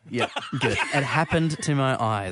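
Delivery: laughing. Real, not acted. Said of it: "Is that the best you could say".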